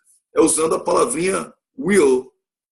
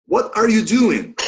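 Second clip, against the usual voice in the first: What are you doing, drawn out slowly and high; slow, higher teacher demo; slow careful English model; 7 semitones higher, 4 dB louder, slower than usual. Shown as a demonstration. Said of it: "Só até aqui, ó".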